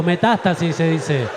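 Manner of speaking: Metástasis with the accent on the A; slow, careful Metástasis, leaning on the A; deliberate correction, slow; stress on the A. Shown as a demonstration. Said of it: "Con acento en la A".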